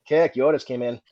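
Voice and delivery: put-on lightly done Boston accent; mild Boston accent; Top McGrath. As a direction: imitate a Boston sergeant breaking news. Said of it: "sound exactly like someone from Massachusetts".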